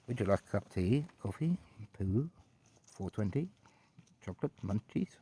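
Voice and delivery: lightly posh British butler; Grim. Pretend. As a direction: offer refreshments in posh British, items lilting separately. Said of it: "He's very posh British".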